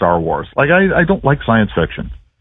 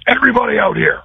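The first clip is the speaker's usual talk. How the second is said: retold coach yell; 12 semitones higher than usual. Coach calls team to midfield.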